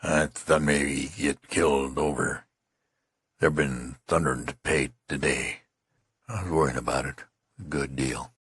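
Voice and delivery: flat monotonous dazed voice. Acted. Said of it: "He continued in a monotonous voice".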